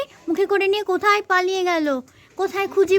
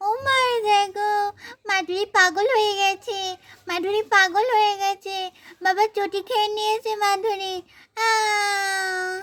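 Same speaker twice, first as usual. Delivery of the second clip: put-on crying child; 2 semitones higher than usual. Child crying telling mother.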